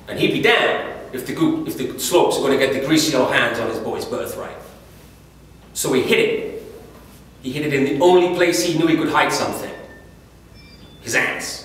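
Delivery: worked-up, emphatic indignation; indignant. Acted. War comrade telling a boy of his dad's defiance, indignant. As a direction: tell it with rising indignation and punched words.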